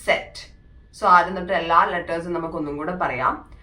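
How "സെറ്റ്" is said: സെറ്റ് said "tset" with a ts sound; crisp സെറ്റ്, Z as ts; German letter Z. Shown as a demonstration. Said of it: "ഇസഡിനെ നമ്മൾ pronounce ചെയ്യുന്നത് സെറ്റ്".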